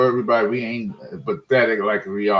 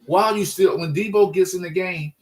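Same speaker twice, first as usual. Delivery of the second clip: heated rant; 6 semitones higher than usual. Real, not acted. Fan ranting about predictable play calls, heated higher complaint. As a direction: vent the frustration with the play calling.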